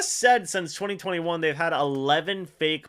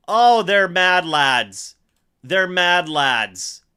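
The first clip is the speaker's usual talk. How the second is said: awed disbelief; 7 dB louder, slower than usual. Real, not acted. Disbelief after fake punt.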